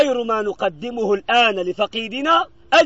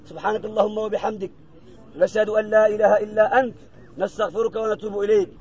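closing prayer. Acted. Imam ending the graveside prayer with praise, softened closing recitation. Closes the supplication.

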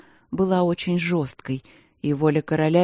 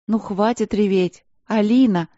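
exasperated; 4 semitones higher, 4 dB louder than usual. Acted. Queen snapping at crying sister.

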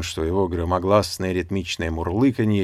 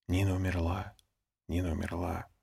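much softer, hushed passing murmur; whispered murmur; 8 dB quieter than usual. A narrator's reading. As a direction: let it ripple softly through the group. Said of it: "Тихий шёпот прошёл по группе".

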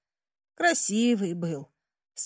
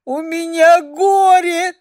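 higher, louder sob; a girl sobbing out her grief; 6 semitones higher, 8 dB louder, slower than usual. A narrator's reading. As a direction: wail it through tears. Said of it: "всхлипнула я".

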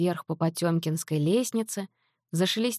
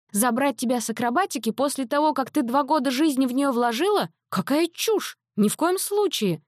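high, indignant refusal; indignant mother; 7 semitones higher than usual. A narrator's reading. Mother dismissing her daughter's silly wish, high indignant refusal. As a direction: scoff it away, outraged.

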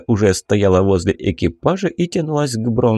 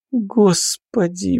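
long, high, slow sigh of a word; drawn out; 10 semitones higher, much slower than usual. A narrator's reading. Lizonka sighs at the investigator, drawn out high and slow. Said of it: "протянула Лизонька".

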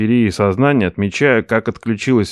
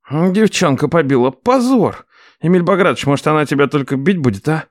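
higher mock-ashamed nephew; nephew lamenting; 4 semitones higher than usual. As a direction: bemoan the shame.

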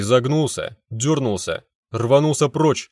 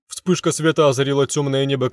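usual speaking voice

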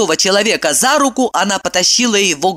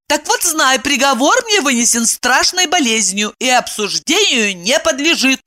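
high, insistent; ordering; 7 semitones higher than usual. A narrator's reading. Evdokia orders Kirillov to speak. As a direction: demand he tell all. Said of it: "она приказала".

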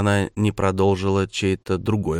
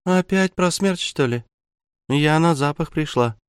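high, whiny, squeaky little voice; squeaky displeased drawl; 8 semitones higher than usual. Acted. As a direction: drag it out, squeaky and annoyed. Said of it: "протянула недовольным, писклявым голоском".

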